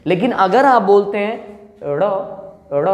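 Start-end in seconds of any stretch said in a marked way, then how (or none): 1.8-2.9 ड़ flicked off the roof of the mouth; retroflex flap ड़. Shown as a demonstration. Teacher modelling ड़ for students to repeat. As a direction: snap the tongue for ड़. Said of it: "झटका देता है".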